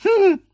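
very high squeaked hm; squeaky hum. A narrator's reading. The bird beak echoing, squeaking hm. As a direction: squeak a tiny hm. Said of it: "пропищал нос".

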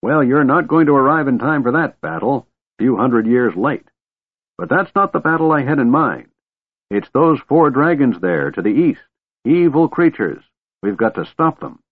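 put-on high-pitched, insistent old man; exasperated old man. A narrator's reading. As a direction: set the dragon straight, voice up high. Old man argues with the dragon.

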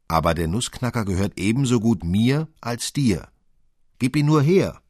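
put-on high, loud boy's outburst; shouted demand. A narrator's reading. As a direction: shout it as a quarrelling child claiming his share. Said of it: "rief Fritz".

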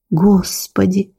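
slow, groaning God; drawn-out moan. Acted. Sofia, collapsing into the chair after Marco's confession, moans slowly. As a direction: moan it out, drained. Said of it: "простонала Софья".

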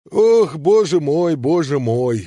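weary sigh, slow. Acted. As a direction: sigh the words out. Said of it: "вздохнул Самойленко".

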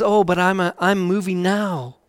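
tender, hushed invitation; soft voice of God. Retold or imitated. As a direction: let it drop to a hush, not a true whisper. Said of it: "he whispers so softly".

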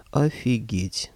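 slow stretched-out amazement; drawn out. Acted. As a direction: drag out the word slowly. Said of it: "протянул".

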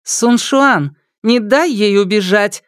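put-on high girl's voice giving a cold order; cold command. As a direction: order her friend coldly. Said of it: "холодно сказала Мана".

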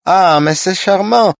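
high, loud, delighted cry; a wife exclaiming in French to mask nerves; sudden exclamation. A narrator's reading. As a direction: burst out in French with nervous delight. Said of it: "воскликнула она вдруг".

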